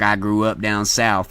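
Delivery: slow, lightly mocked southern accent. Streamer mocking fellow Indianans who claim to be southern, mock southern accent. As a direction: imitate a southern accent, drawing it out. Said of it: "people get a fucking accent".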